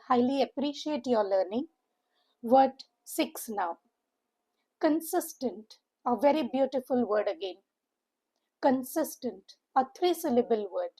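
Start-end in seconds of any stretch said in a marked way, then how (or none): 4.8-5.8 Consistent with the weight on "sis": con-SIS-tent; stress on second syllable. Shown as a demonstration. Teacher modelling the word for English learners, stress on the middle syllable. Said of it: "Stress is on the second syllable". 8.6-9.6 Consistent said con-SIS-tent, middle syllable strongest; stress on second syllable. Shown as a demonstration. Teacher repeating the word for learners, stressing the middle syllable. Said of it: "Stress is on the second syllable".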